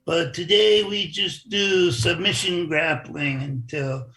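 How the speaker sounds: imitating a thick Brazilian accent. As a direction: play a Brazilian fighter, a bit hammed-up. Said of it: "I'm not gonna imitate it very well".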